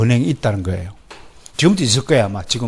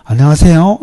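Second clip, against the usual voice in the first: friendly greeting; 3 semitones higher, 6 dB louder than usual. Shown as a demonstration. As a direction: lightly demonstrate a courteous greeting. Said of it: "말투가 좀 친절하고 상냥하면". (친절하고 상냥한 인사)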